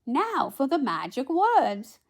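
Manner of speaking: high, loud, slowed announcement; fairy godmother. A narrator's reading. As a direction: build up to the spell. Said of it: "she said".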